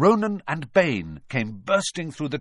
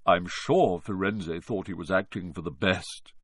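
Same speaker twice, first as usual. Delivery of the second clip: gloomy voice; 5 semitones lower than usual. Acted. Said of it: "in his gloomy voice".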